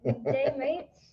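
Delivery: put-on child's tentative English accent; attempted English accent. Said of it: "talk in your best English accent".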